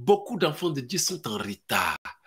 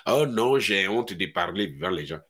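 shy believer; 10 semitones lower than usual. Retold or imitated. Believer too shy to serve God, low timid mock voice. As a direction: play a timid excuse-maker.

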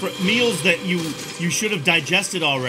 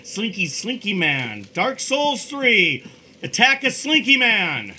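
movie trailer voice; slower than usual. Pretend. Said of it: "my trailer voice guy".

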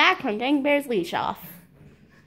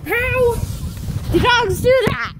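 exasperated disbelief; 9 semitones higher than usual. Real, not acted. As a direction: blurt it out in amazement.

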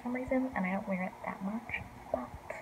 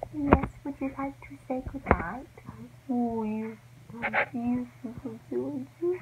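sleepy talk to pet; 4 semitones higher, slower than usual. Real, not acted. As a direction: coo at the kitty. Cooing goodnight to the cat.

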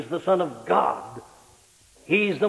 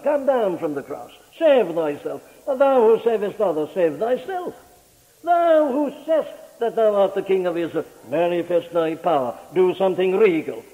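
louder scornful jeering at the dying man; mocking taunt; 3 dB louder than usual. Crowd jeers at Jesus on the cross: louder mocking dare. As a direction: taunt him, daring him to save himself.

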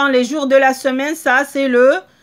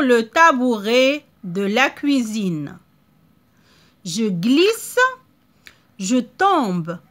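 slow read-aloud. Shown as a demonstration. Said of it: "une première lecture".

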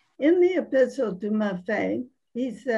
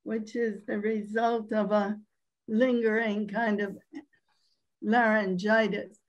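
hoarse voice. Real, not acted. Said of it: "apologies for my hoarse voice".

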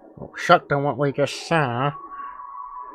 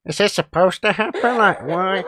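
higher-pitched, plaintive complaining; exasperated protest; 4 semitones higher than usual. Real, not acted. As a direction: protest the unfairness to the game. Player protests characters dying.

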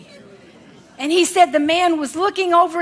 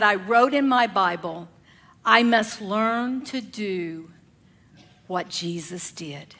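slow, fading to a whisper; hushed quote; 8 semitones lower, 7 dB quieter, slower than usual. Retold or imitated. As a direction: let it drop to a reverent whisper. Preacher quoting, hushed slow whisper.

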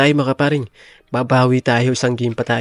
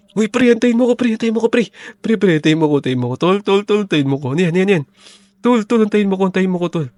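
much higher, pleading whine to wait; panicky begging; 6 semitones higher, faster than usual. Acted. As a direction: cry after a fleeing friend in mock panic. (nagmamakaawang sigaw, mataas)

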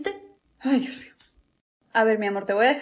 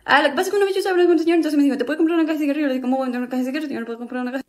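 rushed talking; much faster than usual. Acted. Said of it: "¿Por qué estás hablando así?".

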